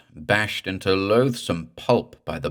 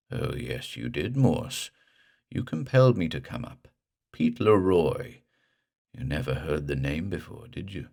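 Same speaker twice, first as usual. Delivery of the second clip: drowned ghost; 3 semitones lower than usual. Acted. Drowned ghost to Morse, low and creepy.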